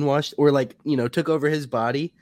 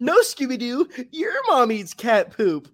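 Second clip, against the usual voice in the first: Shaggy; 5 semitones higher than usual. Retold or imitated. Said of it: "that's when Shaggy goes".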